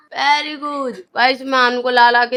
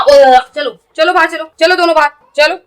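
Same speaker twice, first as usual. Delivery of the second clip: calling out; 3 semitones higher, 8 dB louder than usual. Real, not acted. Shooing kids out loudly.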